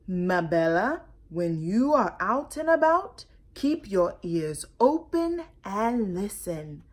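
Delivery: lightly voiced father; a hint of a wise father; father's advice. Father advising Mabella, lightly voiced. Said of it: "Her father had always said".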